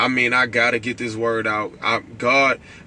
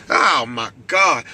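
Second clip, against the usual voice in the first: excited exclamation; much slower than usual. Real, not acted. Overcome mid-sermon.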